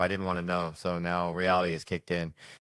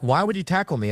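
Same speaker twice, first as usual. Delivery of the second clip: indignant; 9 semitones higher, 3 dB louder than usual. Retold or imitated. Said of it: "I'm like".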